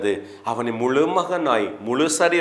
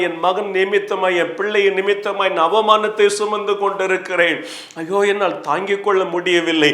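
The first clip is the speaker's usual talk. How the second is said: higher-pitched, pleading complaint; acted lament; 4 semitones higher than usual. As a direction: voice a suffering parent's anguished outpouring. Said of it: "அப்படியெல்லாம் நீங்க புலம்பி வேதனைப்பட்டு". (புலம்பும், உயர்ந்த வேதனைக் குரல்)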